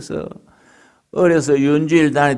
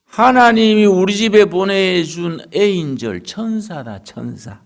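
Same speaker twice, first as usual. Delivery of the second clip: mother-in-law praising; 5 semitones higher than usual. Retold or imitated.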